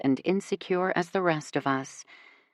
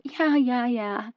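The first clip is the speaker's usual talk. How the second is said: dismissive; 6 semitones higher, slower than usual. A narrator's reading. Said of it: "she cuts me off".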